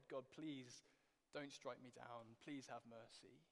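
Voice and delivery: soft, slow, pleading prayer; mock begging God. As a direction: beg for mercy, slow and hushed. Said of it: "we just beg God".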